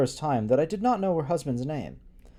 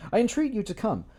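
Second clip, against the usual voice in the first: earnest letter voice; 7 semitones higher than usual. Acted. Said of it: "rereads line properly".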